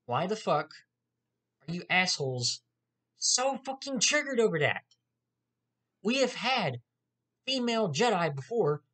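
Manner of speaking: worked-up fed-up ranting; exasperated rant. Real, not acted. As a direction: let the outrage spill out at them. Ranting at toxic fanboys.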